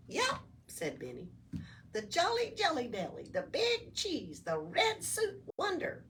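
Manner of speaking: high, chirpy little elf voice; cheerful elf. Acted. Elf explaining to Oscar, high and bouncy. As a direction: introduce yourself like a perky elf.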